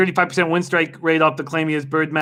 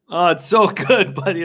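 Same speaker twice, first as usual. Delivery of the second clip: laughing. Real, not acted. Laughing at a viewer's funny post.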